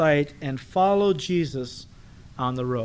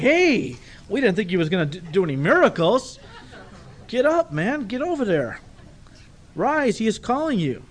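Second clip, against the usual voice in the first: higher, louder hurried urging; eager crowd; 4 semitones higher, 3 dB louder than usual. Retold or imitated. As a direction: push him toward Jesus with excitement. Crowd now eager for miracle.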